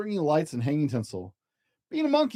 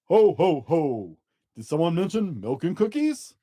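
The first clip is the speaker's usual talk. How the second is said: jolly Santa ho ho. Acted. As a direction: boom out a jolly Santa laugh. Santa arrives laughing.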